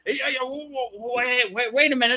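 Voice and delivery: high, breathless and flustered, backing off; overwhelmed visitor. Retold or imitated. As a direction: play the lady swamped by too much energy. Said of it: "It's like".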